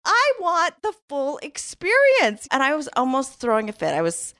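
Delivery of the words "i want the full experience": mock mad. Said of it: "he was mad".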